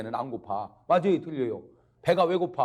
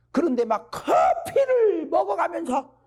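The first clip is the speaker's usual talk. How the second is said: high, loud, slow outcry; impassioned exclamation; 8 dB louder, slower than usual. Real, not acted. Preacher decrying coffee against sleep, high loud outcry. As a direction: stretch it out in loud exasperated reproach.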